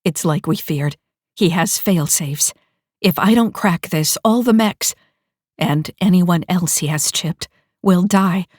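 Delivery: urgent. Acted. Urgent warning.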